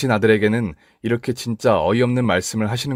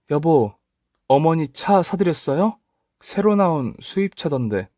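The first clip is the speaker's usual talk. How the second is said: higher, careful wife asking her husband; a wife carefully probing her husband; wife's cautious question; 7 semitones higher, slower than usual. Acted. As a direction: raise it gently, probing.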